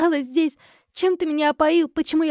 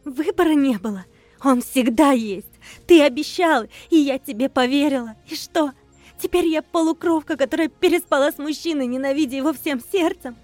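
higher, louder furious tirade; lashing accusations; 5 semitones higher, 5 dB louder than usual. Acted. Wife hurling accusations at her husband, high and loud. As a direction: lash him with accusations. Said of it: "хлестала обвинениями".

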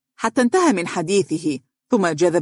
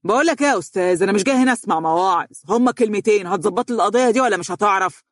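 mildly exasperated, higher and impatient; exasperated outburst; 4 semitones higher, faster than usual. Acted. Client refusing the lawyer's sermons, exasperated. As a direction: push back with irritated impatience. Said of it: "زفر الرجل في ضيق وهتف به".

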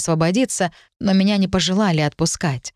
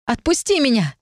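higher, strained angry order; angry demand; 6 semitones higher than usual. A narrator's reading. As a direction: demand he let go. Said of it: "рявкнула снова".

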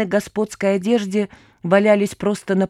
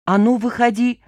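loud, higher command with a tremble; shaky command; 4 semitones higher, 4 dB louder than usual. Acted. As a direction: bark it out while scared. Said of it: "дрожащим голосом скомандовала Мурка".

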